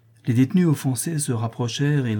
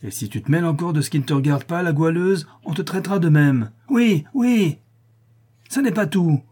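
threatening cry; 7 semitones higher than usual. A narrator's reading. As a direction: bark threats at her. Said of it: "cria la louve".

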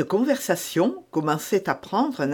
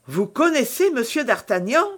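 higher-pitched, rising startled question; astonished exclamation; 6 semitones higher, 3 dB louder than usual. A narrator's reading. Novice hears Milady name d'Artagnan, astonished exclamation. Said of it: "s'écria la novice à son tour".

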